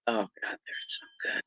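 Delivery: breathless whisper of delight. Real, not acted. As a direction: whisper it like the taste is too good to say aloud. Savoring garden vegetables while eating.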